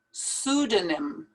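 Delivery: "Pseudonym" starting on the S, no P; silent P. Shown as a demonstration. Teacher warning learners off the P, pronounced with it silent. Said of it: "Don't pronounce that P".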